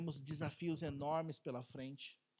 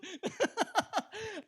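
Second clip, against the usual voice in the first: laughing hard at the memory; high laugh; 13 semitones higher, 5 dB louder than usual. Real, not acted. Laughing at own story.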